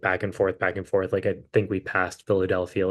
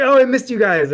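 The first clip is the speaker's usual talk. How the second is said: loud, very high mock wail; exaggerated imitation of a distraught fan crying out; crazy-sounding fan; 14 semitones higher, 8 dB louder than usual. Fan who missed the band's set, crazy high wail. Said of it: "I know I sound crazy".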